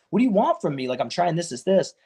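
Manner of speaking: high exasperated demand; fired up. Retold or imitated. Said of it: "I start getting, like, fired up".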